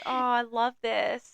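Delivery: doting onlooker imitation; imitated adoring coo. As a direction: coo it with a smile, head tilted. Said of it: "heads tilted, smiling".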